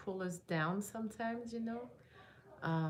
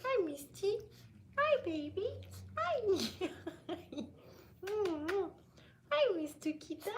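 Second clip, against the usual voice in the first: high cooing greeting to a puppy; puppy talk voice; 9 semitones higher than usual. Real, not acted. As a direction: coo hello to the dog, up high. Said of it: "I'm getting into puppy mode right now".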